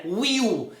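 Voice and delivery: "Will" as "uíu", no L; Portuguese-style reading. Shown as a demonstration. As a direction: say "Will" ending in a Brazilian U. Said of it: "igual a gente fala no português". (Will à brasileira, "uíu")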